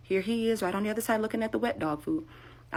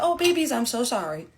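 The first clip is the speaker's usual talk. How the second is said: high, tender "babies"; cooing apology; 5 semitones higher than usual. Retold or imitated. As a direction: soothe the truck like a pet. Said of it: "bumped the tire on my truck".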